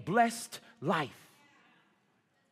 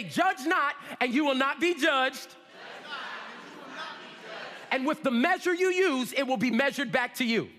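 raised, forceful chant-along delivery; said with chest; 5 semitones higher than usual. Shown as a demonstration. Preacher leading congregation in repeating a verse, from the chest. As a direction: say it from the chest for the crowd to follow. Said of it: "say it with your chest".

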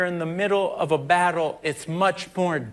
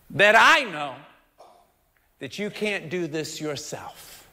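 tender reassurance; 2 semitones lower than usual. Retold or imitated. Tender word from God.

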